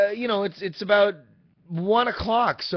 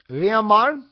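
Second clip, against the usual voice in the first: put-on higher, louder Hispanic accent, rising at the end; her Hispanic-accented voice; 6 semitones higher, 6 dB louder than usual. Imitating the phone woman naming the driver, Hispanic accent. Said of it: "say it in her voice".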